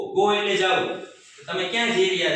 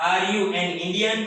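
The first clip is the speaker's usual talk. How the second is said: slow, deliberate teacher question; slow model question; much slower than usual. Shown as a demonstration. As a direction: draw it out word by word. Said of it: "જેનો જવાબ હા નામાં આવશે". (ધીમે ધીમે પૂછાયેલો પ્રશ્ન)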